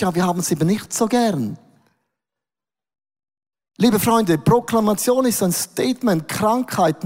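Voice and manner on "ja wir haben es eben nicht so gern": mild mock Swiss. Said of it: "so schweizerisch".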